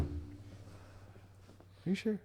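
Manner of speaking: slow teasing whisper. Real, not acted. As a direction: draw it out in a whisper. Drawn-out whispered tease.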